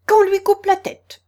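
high, loud angry queen's shout; furious scream. A narrator's reading. Enraged Queen ordering Alice's beheading, screaming high. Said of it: "elle se mit à crier".

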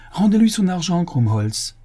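loud, high command; furious order. A narrator's reading. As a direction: bark the order at the clerk. Commissaire ordonne, furieux. (ordre furieux)

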